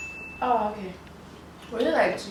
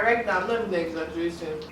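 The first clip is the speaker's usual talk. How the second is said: mouth burning from spicy food; 3 semitones lower, 4 dB quieter than usual. Real, not acted. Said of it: "It's extremely hot".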